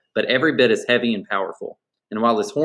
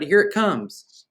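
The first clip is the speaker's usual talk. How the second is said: high, drawn-out excited call; excited shout; 9 semitones higher, much slower than usual. Acted. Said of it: "I shouted".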